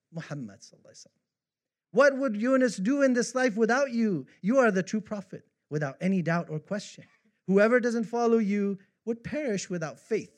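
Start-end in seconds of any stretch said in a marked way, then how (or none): 1.9-10.3 raised, loud verse recitation; declaimed praise poem. Acted. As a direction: declaim it to the one being praised, voice lifted. Declaims translated devotional poem.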